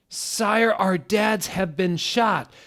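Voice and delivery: squeaky distressed student voice; high whiny Draco. Acted. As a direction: play the boy begging the headmaster.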